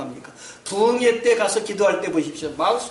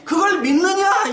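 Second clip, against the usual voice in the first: voicing the Lord; 10 semitones higher than usual. Preacher voicing the Lord's question.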